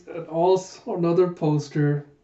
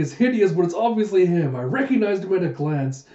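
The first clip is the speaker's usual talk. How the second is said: raised, animated mock delight; acted amusement; 4 semitones higher than usual. The speaker losing it over Huck's poster, acted amusement. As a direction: crow over it in a higher voice.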